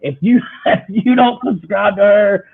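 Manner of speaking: high, loud fan rant; gushing, worked-up telling-off; impassioned rant. Retold or imitated. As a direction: rave insistently, scolding anyone who won't subscribe. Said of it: "it was, like, a whole rant".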